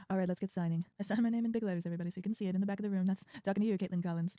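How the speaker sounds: lightly voiced president rambling at a signing; Trump impression. President at a bill signing, lightly voiced Trump. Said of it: "he's like".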